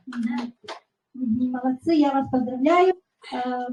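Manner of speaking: ordinary talk, nothing marked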